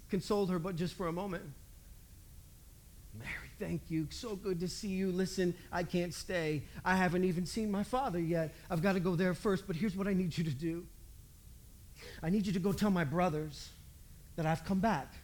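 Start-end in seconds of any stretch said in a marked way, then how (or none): 3.1-15.1 softly lowered, understated consoling voice; gentle consoling. Acted. Jesus consoles Mary just for a moment, gently and low. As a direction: console her in a low, soft, unhurried voice.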